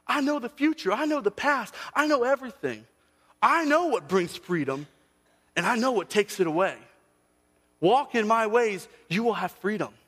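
God gently answering a complaining believer; voicing God. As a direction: speak as God, patient but firm. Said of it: "when God is like".

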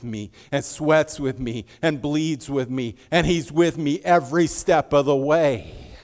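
loud, slow, rising preacher's build; full-force pulpit proclamation; preaching at full force. Acted. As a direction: thunder Paul's praise of his friend.

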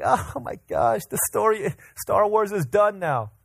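high-pitched, hammed-up dismay; mock distraught. Preacher mimicking a fan upset over a dead Ewok, mock distraught. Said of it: "You get sad that this little Ewok died".

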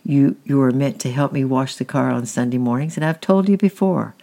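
stepfather scolding Francis for missing the car wash, loud and cross. Acted.

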